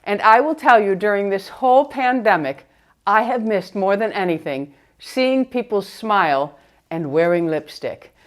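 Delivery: muffled through a face mask; talking behind a mask. Real, not acted. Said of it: "let's go ahead and remove the mask".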